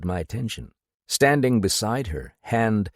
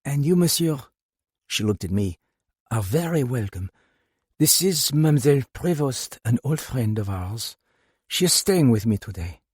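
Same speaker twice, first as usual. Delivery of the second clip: lightly voiced older woman; 4 semitones higher than usual. A narrator's reading. Madame introduces Gina.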